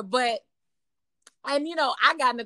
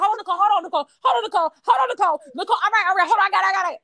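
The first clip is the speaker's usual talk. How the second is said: urgent pleading; 6 semitones higher, 4 dB louder, much faster than usual. Retold or imitated. Calming the shouting friend.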